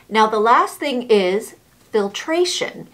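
muffled behind cloth mask; speaking with covered mouth; through a face mask. Real, not acted. Seen 5: Black mask worn over mouth throughout; removed by 9.4.

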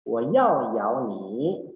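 "wo yao yao ni" slowly, each "yao" with its own tone; slow Mandarin tone model; tone demo. Shown as a demonstration. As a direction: contrast the two tones on "yao yao", slowly. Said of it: "nada itu sangat-sangat penting".

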